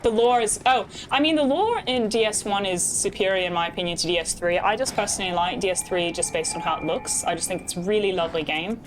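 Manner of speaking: put-on British accent, conversational; bad British accent. Streamer explaining the game to chat, bad British accent. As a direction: talk chat through it in mock British. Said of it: "this is my bad British accent".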